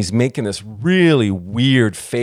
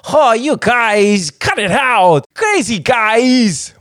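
much higher, very slow dopey voice; 10 semitones higher, 3 dB louder, much slower than usual. Retold or imitated. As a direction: drag it out like a sleepy goof. Busboy voiced teasing coworkers.

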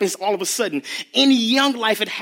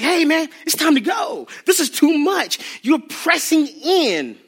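higher, half-shouted brush-off, slowing at the end; impatient shout; 7 semitones higher, slower than usual. Retold or imitated. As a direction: push the crowd back, fed up.

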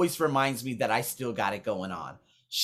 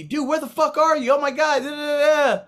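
excited trainer voice; 12 semitones higher, 7 dB louder than usual. Retold or imitated. Voicing excited Aussie trainer.

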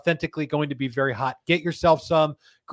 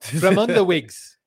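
slow, lightly South African "Fremanda wigs"; mock South African accent; 3 semitones higher, 3 dB louder, slower than usual. Host tries the slogan in a light mock South African accent. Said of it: "uh, South African".

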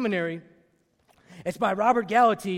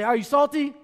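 raised call to the congregation; call and response; 4 semitones higher than usual. Shown as a demonstration. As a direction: lead the crowd in the refrain. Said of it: "Everybody say".

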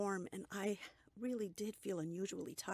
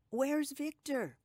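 high, loud, slow asking; eager question; 8 semitones higher, 7 dB louder, slower than usual. A narrator's reading. Mother asks her daughter where her son is, eager. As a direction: call out for him eagerly.

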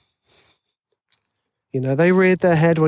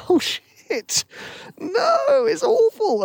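mock panic; much slower than usual. Panicking after inner critic.

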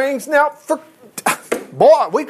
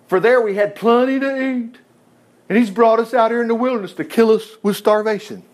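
bitter complaining; 5 semitones higher than usual. Retold or imitated. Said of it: "spoke bitterly against Moses and Aaron".

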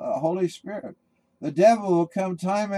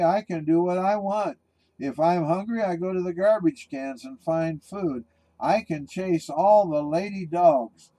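taunting; 3 semitones higher than usual. Acted. Bulldog taunting the chained shepherd, mocking jeer. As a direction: tease the chained dog from a safe distance. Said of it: "laughing and taunting".

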